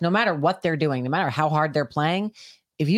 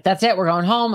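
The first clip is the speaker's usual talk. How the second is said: louder, firm retold yell at the dogs; angry yell; 3 semitones higher, 6 dB louder than usual. Owner yelling at the dogs to go home, firm and loud. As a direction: snap it out like a fed-up owner. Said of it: "I yelled at him".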